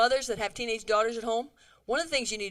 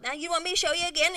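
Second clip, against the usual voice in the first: condescending, fast and higher; belittling; 7 semitones higher, 5 dB louder, faster than usual. Retold or imitated. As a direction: talk down to her like a child. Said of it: "and belittle her".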